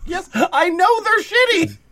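high, loud annoyed clerk; fed-up shopkeeper. Pretend. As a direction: snap back like a tired clerk.

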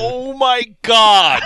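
loud, slow laughing oh my God; laughing disbelief. Real, not acted.

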